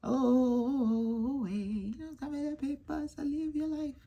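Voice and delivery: light high mock breezy voice; a hint of a breezy airhead; carefree friend. Voicing Karen carefree.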